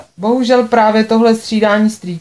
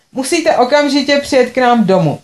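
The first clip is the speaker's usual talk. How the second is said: commanding; 5 semitones higher than usual. Acted. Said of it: "poručila mi".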